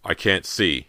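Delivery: stammering, frightened cry; slow, broken with fright; father crying out he cannot see; cry of fear. Acted. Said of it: "he cried".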